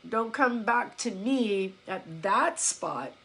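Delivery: slow, spaced-out warning; measured warning. Retold or imitated. Coach to a client who gives up, slow measured warning. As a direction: lay it down slowly, phrase by phrase. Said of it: "I'm not saying it like".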